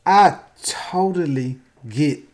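slow breathy whispered aside. Real, not acted. Speaker whispers his sympathy for Chappelle. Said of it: "whispered aside".

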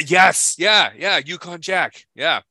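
loud, high burst of recognition; excited. Real, not acted. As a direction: blurt it out, delighted. Excitedly recognizing Yukon Jack.

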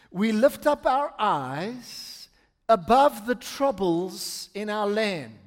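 slow, measured recitation with held words; solemn lyric recitation. Acted. Pastor reciting a worship song's words to the congregation, solemn and measured. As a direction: recite the lines like a hymn, unhurried.

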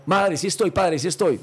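put-on young man rushing to answer the phone, eager. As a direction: jump on the phone hoping it's for you.

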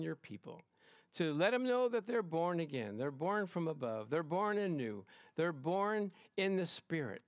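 unhurried phrases addressed to God; prayer. Real, not acted. Leads a prayer.

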